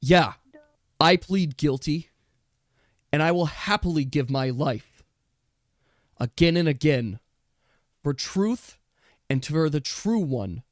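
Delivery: a lightly voiced noble rebel; defiant raccoon Dish. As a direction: defy the false empress to her face. Raccoon Dish defies the court.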